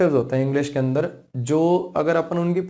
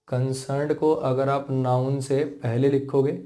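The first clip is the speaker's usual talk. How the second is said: a bit slower, with a pause before it; slower repeat; slower than usual. Shown as a demonstration. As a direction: repeat it more slowly for clarity. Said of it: "फिर से देखो समझा देता हूँ". (दोबारा थोड़ा धीरे समझाते हुए)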